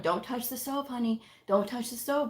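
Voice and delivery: imitating an overly gentle parent; mock sweet. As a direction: coo the warning too sweetly. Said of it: "saying it so sweetly and so nicely".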